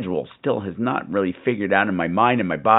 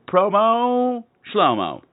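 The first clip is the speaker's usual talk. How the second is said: singsong; 11 semitones higher, much slower than usual. Acted. Silly sung-out catchphrase.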